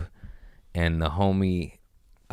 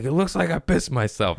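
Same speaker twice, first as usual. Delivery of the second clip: imitating the embarrassed neighbor; 10 semitones higher than usual. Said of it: "he's like".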